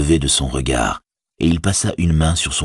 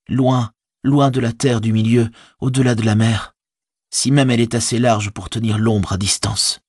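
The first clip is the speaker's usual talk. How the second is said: higher voice, understated despair; despairing Frodo; 7 semitones higher than usual. A narrator's reading. Defeated hobbit telling his servant all is lost, mildly despairing. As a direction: lament the lost quest, pitched up. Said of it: "le désespoir le gagnait".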